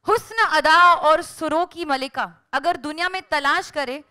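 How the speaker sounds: poetic recitation. Acted. Host recites couplet intro.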